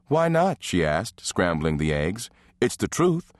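challenging wife. Acted. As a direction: needle him with the truth. Nola bickers with her husband.

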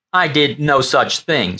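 slow, firm denial; great certainty. Acted. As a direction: state it slowly as settled fact. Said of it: "said Frommer with great certainty".

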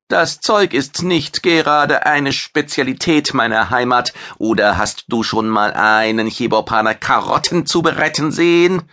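a vain chef bragging about his fame; proud alien chef. Acted. Maitre teases.

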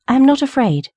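high, insistent little bird; plucky bird standing firm; brave nightingale. A narrator's reading. Nightingale bravely answers the tree.

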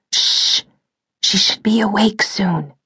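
hushed, breathy shushing; breathy whisper. Acted. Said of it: "breathy voice again".

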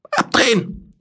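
high, urgent shouted command; shouting orders over battle. Acted. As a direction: yell the order over the noise. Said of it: "Er schrie den Befehl im höchsten Ultraschall".

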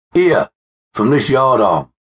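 high, urgent crowd voice; calling out. A narrator's reading. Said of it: "another added".

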